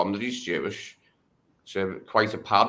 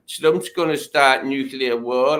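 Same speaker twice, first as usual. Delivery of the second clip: mock panic; 4 semitones higher, 5 dB louder than usual. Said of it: "spazzed out and went".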